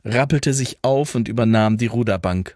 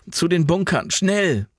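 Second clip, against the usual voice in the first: high urgent call; 7 semitones higher than usual. A narrator's reading. Jan calling everyone to the bunkers. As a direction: hurry them along. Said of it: "rief Jan".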